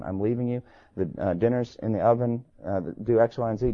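soft, flat, emotionless delivery; flat monotone. Retold or imitated. Calm wife announcing she leaves, soft monotone. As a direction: say it like a done deal, no feeling. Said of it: "she says in a monotone".

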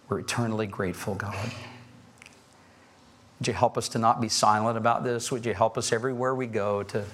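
earnest prayer rising into excitement; closing prayer. Acted. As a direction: pray steadily, then swell with joy.

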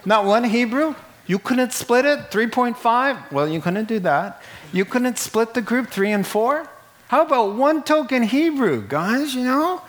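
high, laughing mock disbelief; playful exaggerated astonishment; incredulous. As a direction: tease the apostles with amazed questions.

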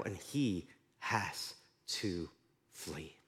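slow, sinking to almost nothing; dramatic hush. Acted. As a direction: let the word flee fade into silence. Dramatic drop to end.

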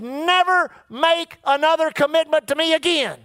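NEVER hit hard, falling at the end; a strong command that opens on "Never"; firm divine command. Retold or imitated. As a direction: stress on NEVER. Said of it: "he spoke to me so strong".

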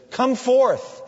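high, loud summons into the tomb; commanding call. Acted. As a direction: call the dead man out with power. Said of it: "he speaks to Lazarus".

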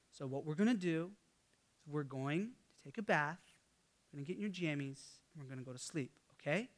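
quiet, measured parental firmness; serious dad. Retold or imitated. Dad telling his toddler to obey at bedtime, quietly serious. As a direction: retell a soft but serious talking-to. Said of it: "got really serious with him".

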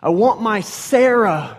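half-acted child wailing for his mother; a touch of a three-year-old crying for mommy. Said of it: "He's like".

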